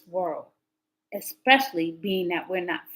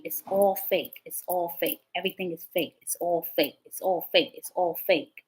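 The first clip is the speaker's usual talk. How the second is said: captor's repeated refrain; 2 semitones lower, 4 dB quieter than usual. Retold or imitated. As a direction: repeat it steadily, imitating the captor. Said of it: "He kept saying to me".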